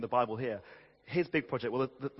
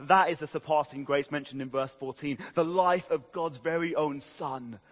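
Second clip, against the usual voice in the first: building, emphatic gospel proclamation; fervent sermon climax, raised and forceful; impassioned preaching; 3 semitones higher, 5 dB louder than usual. Real, not acted. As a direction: drive each phrase home from the pulpit.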